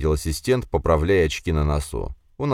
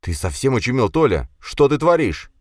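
raised, urgent remonstrance; aghast reproach; 7 semitones higher, 4 dB louder than usual. A narrator's reading. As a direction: try to stop a friend's folly, voice rising. Friend aghast at Tolya.

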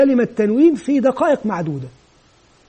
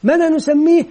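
higher-pitched classroom question; teacher quizzing; 4 semitones higher than usual. Acted. Teacher asking children about the letter, quizzing. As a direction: prompt the class for an answer.

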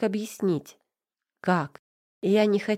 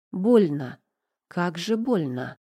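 ordinary delivery

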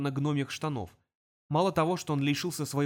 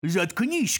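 gruff demon telling the imp to shut up; demon snarl; 4 semitones higher, 4 dB louder, slower than usual. Acted. Demon snarling at the imp. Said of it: "Номер первый отступил".

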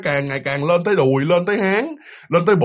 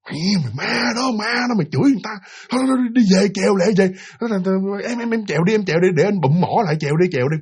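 muffled urgent warning; faster than usual. Retold or imitated. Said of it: "ông bụm cái mỏ một cái".

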